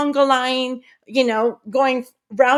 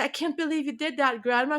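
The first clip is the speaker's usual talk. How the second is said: stunned hush; 8 dB quieter, faster than usual. Retold or imitated. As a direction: barely get the words out. Stunned teen to grandma.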